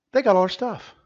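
starting to get worked up; alarmed complaint. Acted. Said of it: "repeated louder right after".

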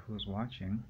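a touch of paranoia in the question; mildly uneasy. Retold or imitated. Alone in the room, imagining watchers, mildly uneasy. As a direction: ask it as if glancing over your shoulder. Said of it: "but I'm looking around like".

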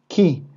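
ki, a short k with a clear i; Hebrew syllable ki. Shown as a demonstration. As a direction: show the syllable ki. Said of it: "esto ya sonaría como ki". (sílaba «ki» pronunciada con claridad)

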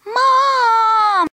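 loud wailing cry; upset cry. Acted. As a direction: cry out Mom in distress. Child cries out upset.

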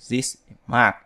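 This is Mark with this and is run together as zis-is; linked sounds. Shown as a demonstration. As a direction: blend This is Mark into one flow. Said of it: "Các bạn nhớ nối âm này".

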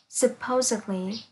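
"supposedly" with -id- as its own syllable; four-syllable "supposedly", suh-POH-zid-lee. Shown as a demonstration. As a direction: sound out the ED inside "supposedly". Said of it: "trạng từ cũng có tận cùng đọc là it".

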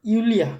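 "ইউলিয়া" with the first vowel stretched a little; drawn out. Shown as a demonstration. Teacher models the German J sound for students, "ইউলিয়া" drawn out. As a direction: stretch the start of "ইউলিয়া" slowly. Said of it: "মানে আপনি একটু টেনে পড়বেন".

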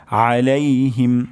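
drawn-out আলাইহিম, throat squeezed at the start; mid-throat ayn. Shown as a demonstration. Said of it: "আইন গলার মাঝখান থেকে উচ্চারণ হবে". (গলার মাঝখান থেকে আলাইহিম)

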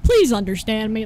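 loud, urgent lecture; forceful, frustrated begging; exasperated pleading. Real, not acted. Pleading with slow game character.

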